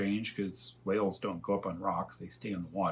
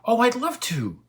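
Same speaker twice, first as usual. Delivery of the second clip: very high, loud excited cry; eager yes; 9 dB louder than usual. Acted. Elmer thrilled to rescue the dragon, very high loud. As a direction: leap at the offer. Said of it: "said my father".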